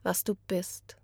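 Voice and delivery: whispered verdict. Acted. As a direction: hiss it out softly as a whisper. Staged poem, accusing close.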